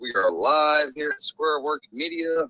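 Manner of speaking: slow, mock news anchor read. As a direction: announce it like breaking news.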